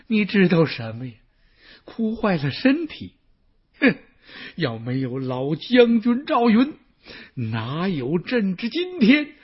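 pushes the courtier away, then rises slow and grieving; a tearful emperor, drawing out each word of thanks; tearful rebuke. Acted. Emperor rebukes courtier over the dead general, slow, tearful. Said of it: "他哭得更厉害了".

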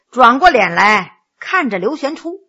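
ordinary delivery

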